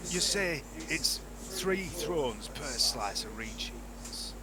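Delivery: in-character trader. Acted. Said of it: "say to Chungus".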